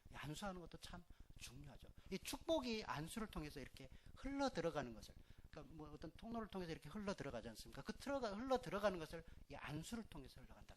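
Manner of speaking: ordinary delivery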